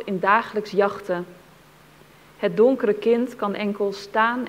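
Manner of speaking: measured verse reading, a pause after each line; poem recitation. Acted. Reader telling of a Jewish child awaiting father, restrained poem recitation.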